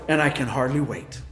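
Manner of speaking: God caricatured as gleeful, loud and fast; hammed-up gleeful threat; preacher mocking a false picture of God, gleeful and quick; mock eager punisher. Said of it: "he doesn't sit there and go".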